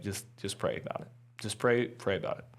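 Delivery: quiet, understated counsel; imitating a calm motherly hush; soft gentle advice. Retold gentle advice from mom.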